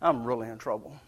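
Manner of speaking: hushed, sinking dread; inner panic. Retold or imitated. Boy hiding in trees realizing he's caught, hushed dread. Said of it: "I'm like".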